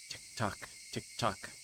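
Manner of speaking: slow, breathless whisper of the clock; whispered tick-tock. Acted. Girl staring at the clock whispers the ticking.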